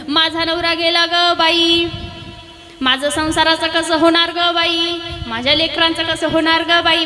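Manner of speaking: slow, drawn-out mock lament, no real tears; half-hearted sung wail of a widow; wife fakes mourning over her husband, a slow mock wail. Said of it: "ती मोठमोठ्याने रडू लागली".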